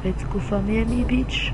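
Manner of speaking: slow, hammed-up hype call; joking big announcement; mock announcer. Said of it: "Oh, je déconne".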